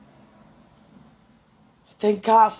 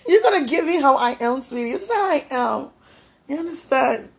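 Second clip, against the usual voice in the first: playful insistence; 6 semitones higher, 5 dB louder than usual. Real, not acted. Playful insistence, raised pitch.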